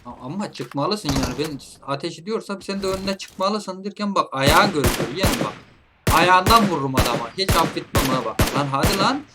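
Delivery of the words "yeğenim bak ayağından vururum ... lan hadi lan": louder threatening boast; loud boastful threat. Real, not acted. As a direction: warn him loudly. Threatening enemy.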